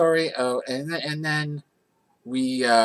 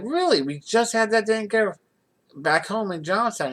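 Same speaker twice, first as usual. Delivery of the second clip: much higher, louder really; disbelief; 10 semitones higher, 4 dB louder than usual. Retold or imitated. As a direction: sound floored by the news. Disbelief at the mechanic's news.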